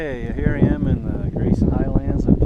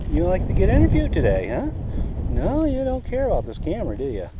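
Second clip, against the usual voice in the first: higher, bouncy teasing coo; playful pet talk; 4 semitones higher than usual. Real, not acted. Vlogger teases a horse about an interview, playful coo.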